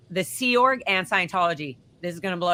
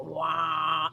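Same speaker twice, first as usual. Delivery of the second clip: imitated alien noise; 3 semitones lower, 5 dB quieter than usual. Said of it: "it's doing alien voices".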